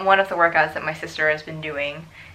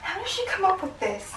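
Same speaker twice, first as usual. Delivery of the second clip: laughing; 12 semitones higher, 5 dB quieter than usual. Real, not acted. Laughing complaint.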